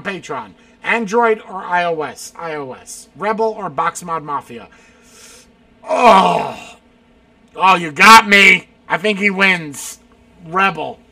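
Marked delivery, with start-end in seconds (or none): 5.9-8.7 much louder, caught-out exclamation; loud outcry. Real, not acted. Host caught out by a tough question, loud outcry. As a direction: cry out as if you've been got.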